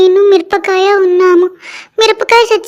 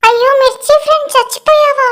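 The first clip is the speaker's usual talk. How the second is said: a higher, mock-tearful wail; lightly acted crying; 5 semitones higher than usual. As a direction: mourn the chilli in a pretend sob. Mourning the fried chilli.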